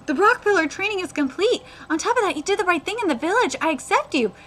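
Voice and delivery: lightly acted earnest mentor; animated dialogue reading; manga read-aloud. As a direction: read a master's approval aloud.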